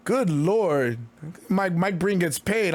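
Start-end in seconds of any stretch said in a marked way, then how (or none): 0.1-1.0 hoarse voice. Real, not acted. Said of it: "I'm losing my voice".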